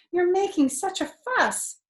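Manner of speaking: mom's mild scold. Acted. Mom scolding fox.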